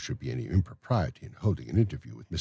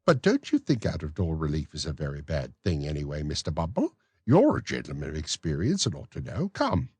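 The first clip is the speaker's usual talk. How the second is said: genteel matron. Acted. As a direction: play the coy matron. Matron coaxes.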